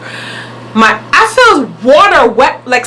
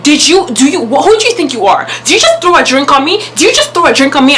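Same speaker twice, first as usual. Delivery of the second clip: retold heated demand, pitched up; angry confrontation; 4 semitones higher, faster than usual. Storyteller replays confronting the man who threw a drink, angry. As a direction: confront him with rapid, indignant questions. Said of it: "I'm big mad".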